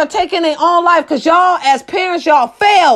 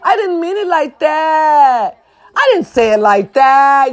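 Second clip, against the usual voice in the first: mock victim. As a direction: imitate an oversensitive victim, stretching the last words. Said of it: "y'all victims".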